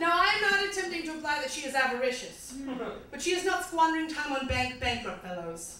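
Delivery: slightly bad British recital; quasi British accent. Comic recites a song to audience, slightly bad British accent. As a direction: read it as poetry in mock-British English. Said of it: "slightly bad British accent".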